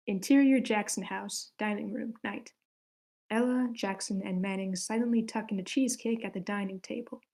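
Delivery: reading stage directions aloud for the table read; script reading. Acted. Director reads scene directions to the cast, steady read-aloud. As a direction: read it like a screenplay's scene heading, clear and measured.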